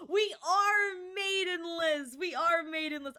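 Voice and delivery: gasped, slow and high, hammed up; dramatic proclamation. Gasping to chat in mock despair. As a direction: declare it like a tragic hero.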